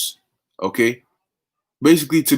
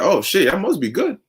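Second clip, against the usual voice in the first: mock surprised Lord; 4 semitones higher than usual. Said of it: "he's like".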